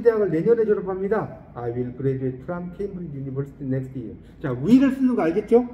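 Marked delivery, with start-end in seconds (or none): 1.5-4.1 slow, deliberate English model sentence; slow model reading. Shown as a demonstration. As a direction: read it out slowly word by word. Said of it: "model reading". (천천히 또박또박 읽는 영어 예문)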